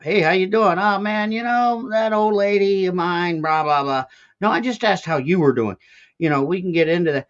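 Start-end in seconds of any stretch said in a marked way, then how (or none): 0.0-5.8 lightly voiced oversharing neighbour, a bit higher; breezy, rambling small talk with a lift; chatty American small talk. S1 mimics an oversharing American greeting, chatty and higher. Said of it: "more open, a little more relaxed with our".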